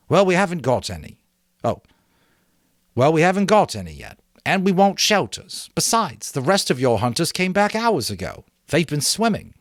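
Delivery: high, loud quick retort; irritated boy. A narrator's reading. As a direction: snap back at Jack. Ralph retorts.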